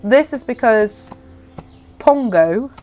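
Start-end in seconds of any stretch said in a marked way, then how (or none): 2.0-2.7 stuffy nose from a cold; blocked nose. Real, not acted. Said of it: "I still have this stupid cold".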